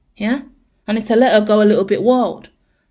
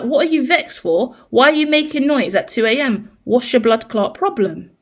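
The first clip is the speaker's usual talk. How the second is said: raised pitch, mock-exasperated telling off; scolding the cat; 3 semitones higher than usual. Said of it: "And I'm like".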